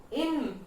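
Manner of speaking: इन said alone as one complete beat; isolated syllable. Shown as a demonstration. Teacher breaking information into sounds, isolated syllable इन. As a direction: set इन apart as its own syllable. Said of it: "complete हो गया".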